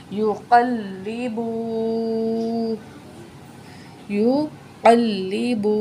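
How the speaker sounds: یقلب with a hard, doubled lam, said slowly. Shown as a demonstration. Teacher stressing the doubled letter. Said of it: "لام کو جو ہے سختی سے پڑھیں گے".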